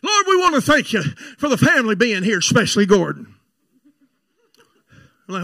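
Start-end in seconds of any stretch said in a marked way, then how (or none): 0.0-3.3 imitated family prayer, louder than chat; lightly mocked relative saying grace; Thanksgiving prayer. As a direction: pray pointedly aloud at the dinner table. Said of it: "the prayer and the Thanksgiving".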